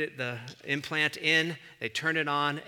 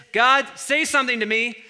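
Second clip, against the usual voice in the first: a pleading cry, higher and louder; mock desperate prayer; 9 semitones higher, 10 dB louder than usual. Churchgoer in crisis pleading at an opened Bible. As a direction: beg God like you're in crisis. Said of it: "open it up like this".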